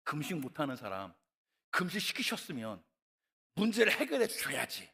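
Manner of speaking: building to a furious shout at God; complaining to God. Retold or imitated. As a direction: whine then yell in frustration. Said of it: "하나님 앞에 원망했던 것이 기억나요". (하나님께 원망하며 점점 커지는 고함)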